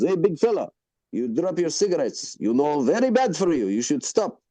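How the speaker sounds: lightly voiced owner giving advice; restaurant owner. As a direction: imitate a familiar, admonishing restaurant owner. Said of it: "He goes".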